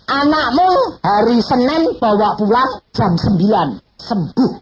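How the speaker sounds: high, loud, slow proclamation; voice of God. Retold or imitated. Preacher booms God's promise that the child heals. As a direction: announce it like a divine promise. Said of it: "Dia ngomong".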